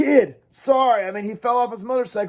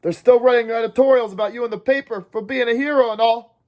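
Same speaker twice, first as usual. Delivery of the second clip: too fast, too calm; 6 semitones higher than usual. Acted. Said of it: "talking too fast and too calmly".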